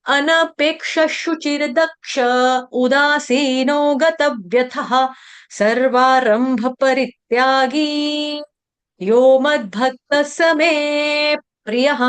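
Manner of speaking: slow, measured Sanskrit verse recitation; shloka recitation. Shown as a demonstration. Teacher reciting the full verse for the class. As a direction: recite the whole shloka steadily, line by line. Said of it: "पूरा श्लोक देखेंगे".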